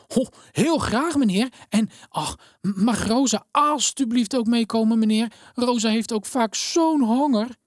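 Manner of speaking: put-on a poor girl asking the minister a favour; pleading little girl. A narrator's reading. Elena begs the minister to take Rosa too, high and pleading.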